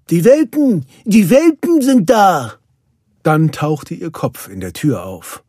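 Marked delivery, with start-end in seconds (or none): 0.1-2.5 high, loud joyful announcement; excited. A narrator's reading. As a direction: burst out with the great news. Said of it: "Nannys aufgeregte Stimme". (aufgeregt rufend)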